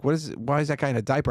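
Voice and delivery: put-on high little-kid question; curious young daughter. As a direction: imitate a little girl asking, puzzled. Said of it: "my daughter was like".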